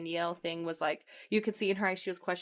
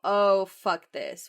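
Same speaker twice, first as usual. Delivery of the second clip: fed up; 6 dB louder, slower than usual. Retold or imitated. Acting out friend's fed-up reaction.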